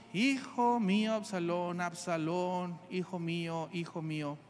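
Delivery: crying out, then sinking to a broken murmur; loud wail fading. Acted. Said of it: "clamaba en alta voz".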